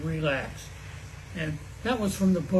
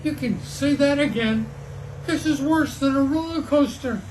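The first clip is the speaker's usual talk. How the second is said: high, loud shout; raised storybook yell; screamed agreement; 7 semitones higher, 4 dB louder than usual. A narrator's reading. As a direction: scream it back over the wind. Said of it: "Pete screamed".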